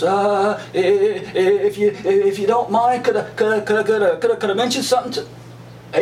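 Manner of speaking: hesitant, stumbling and repeating the words; overly polite pretend nerves, tripping over could I; mock nervous stammer. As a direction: play a timid man asking permission he doesn't need. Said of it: "Like he was quaking in his boots".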